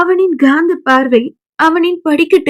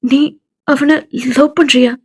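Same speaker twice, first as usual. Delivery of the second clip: gentle question. Acted. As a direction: ask her tenderly, almost whispering. Friend gently asks about love.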